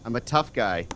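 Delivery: mock-tough, low villain; Moriarty. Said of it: "Tough evil Moriarty".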